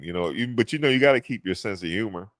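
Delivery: ordinary talk, nothing marked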